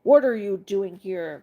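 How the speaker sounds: slow, gruff, hammed-up dog; growling watchdog. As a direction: growl the question, slowly. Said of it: "growled the watchdog".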